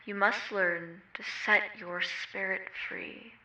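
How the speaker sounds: measured meditation voice, drawing out some phrases; guided meditation. Real, not acted. Meditation guide inviting listeners to move freely, unhurried guiding voice. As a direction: guide them gently through movement, with long pauses.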